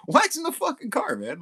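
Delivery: shouted answer to a clueless nephew; mock indignant retort. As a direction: fire it back like it's obvious.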